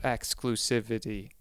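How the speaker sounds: exclusivity drawn out slowly, syllable by syllable; exclusivity said slowly and clumsily. Shown as a demonstration. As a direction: stretch exclusivity out like you're slow. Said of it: "I said that word like I'm slow".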